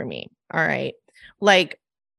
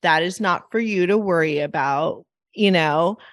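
changed voice. Retold or imitated. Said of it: "it's like my voice changes".

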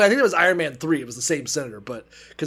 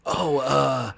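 much lower and softer, awkward mumble; awkward eunuch; 6 semitones lower, 7 dB quieter than usual. Retold or imitated. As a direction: mumble it like an uneasy messenger. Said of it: "He's like".

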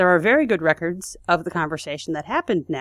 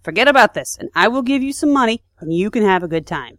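a hint of a pushy briber, louder; acting as Dash offering a bribe; 3 semitones higher, 5 dB louder than usual. Saboteur pushes a bribe on the guard, mildly pushy and louder. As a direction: coax him to take the money. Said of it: "pulls out a wad of bills".

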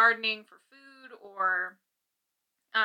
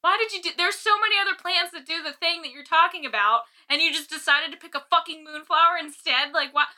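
retold furious rant; 6 semitones higher than usual. Ranting at a show that botched the moonflower, exasperated. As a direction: vent at the show's writers, indignant and half laughing. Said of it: "it made me so mad".

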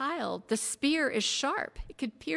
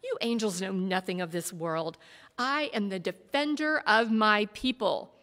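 louder, rising heated defence, building; 4 semitones higher, 7 dB louder than usual. A narrator's reading. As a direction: argue harder with each line. Warrior defends himself heatedly.

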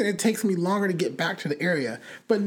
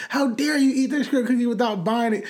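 higher, indignant mock scolding; mock cussing-out; 5 semitones higher than usual. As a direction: scold with playful outrage. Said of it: "cussing this lady out".

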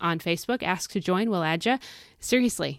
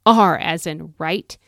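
out loud declaration; 5 dB louder than usual. Shown as a demonstration. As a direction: declare it so the devil hears. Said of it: "out loud, so the devil and all of his nasty, devious little minions can hear you".

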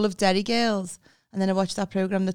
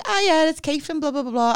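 higher, louder work-call opener; imitated office phone voice; phone greeting; 8 semitones higher, 5 dB louder than usual. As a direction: rattle off a re-enacted phone introduction. Re-enacting own work phone greeting.

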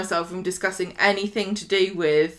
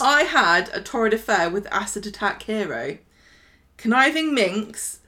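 tabloid reading. Shown as a demonstration. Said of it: "let me read it out".

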